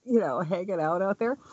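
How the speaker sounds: lightly voiced mock alarm, slowing at first; a touch of hammed-up disbelief; mock shocked aside. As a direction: feign horror about axe murderers. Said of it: "all I could think of is".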